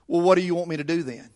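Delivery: lightly voiced teen, quick and low; sarcastic teenager. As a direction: toss it off like a slightly sarcastic teenager. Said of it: "this sounds like a teenager".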